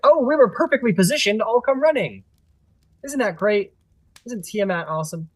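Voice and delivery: lightly voiced kobolds. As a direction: cheer like gleeful little minions. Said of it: "they're all like".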